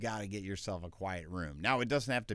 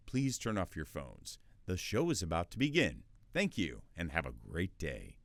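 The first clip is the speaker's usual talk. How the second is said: announcement read; 3 semitones lower than usual. Shown as a demonstration. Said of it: "an announcement like".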